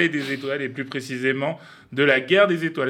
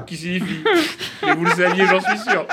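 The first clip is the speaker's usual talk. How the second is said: breaking into real laughter, higher pitched; can't get the words out for laughing; giggling mid-sentence, voice climbing; laughing through it; 5 semitones higher than usual. Real, not acted. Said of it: "Désolé pour mon accent".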